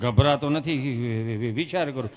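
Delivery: slow, low, halting stutter; mock stammerer labouring over words; stammering patient. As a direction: drag the answer out, stuck on sounds. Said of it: "એ બેનો વાર્તાલાપ ખાલી જોયા જેવો".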